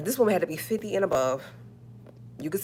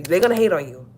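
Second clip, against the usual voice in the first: emphatic; 6 dB louder than usual. Real, not acted. Repeated for emphasis.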